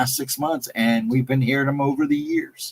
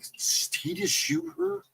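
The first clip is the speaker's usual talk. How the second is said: hushed, higher, slow frightened question; scared hush; 7 dB quieter, slower than usual. Retold or imitated. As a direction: breathe it out, afraid of the answer. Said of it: "we're all freaking out".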